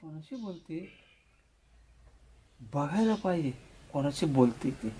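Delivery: very low, hushed talking to oneself; suspicious aside. Acted. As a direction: wonder under your breath, low and suspicious. Father's suspicious aside to himself.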